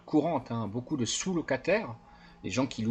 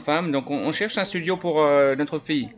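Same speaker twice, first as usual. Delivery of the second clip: a lightly voiced eager buyer, louder and higher; naive buyer voice; 6 semitones higher, 5 dB louder than usual. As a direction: play the friendly gullible buyer, a bit louder. Plays naive buyer on phone.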